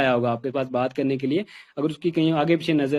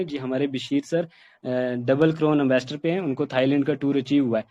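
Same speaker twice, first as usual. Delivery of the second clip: listless monotone; 2 semitones lower than usual. Shown as a demonstration. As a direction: recite it dully, with no energy. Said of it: "ऐसे कहेंगे same wording में". (सुस्त, एक ही सुर में)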